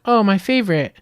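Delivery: hammed-up thrilled child; playful mock excitement; mock delight. Girl reacts in retold ad.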